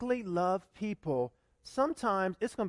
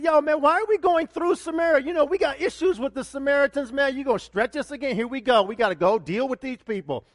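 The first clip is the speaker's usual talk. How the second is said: louder mock complaint from the disciples, "Yo, man"; grumbling disciples; 4 semitones higher, 5 dB louder than usual. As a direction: whine it like a fed-up follower being dragged along. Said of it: "I wonder if the disciples said".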